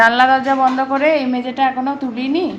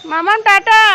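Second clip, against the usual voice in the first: sing-song bye-bye; 9 semitones higher, 8 dB louder than usual. Real, not acted. Waving bye to little daughter.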